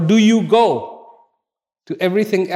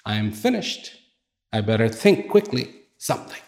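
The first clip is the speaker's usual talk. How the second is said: low, softer, fast worried mutter; a little rabbit panicking under his breath; scared rabbit; 5 semitones lower, 3 dB quieter, faster than usual. Acted. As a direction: rabbit realising he's about to be eaten, frightened. Frightened rabbit thinks aloud.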